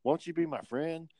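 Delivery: high-pitched pleading child impression; pestering kid. Lonely kid asking players to befriend him, pestering. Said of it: "this kid. He kept talking to us".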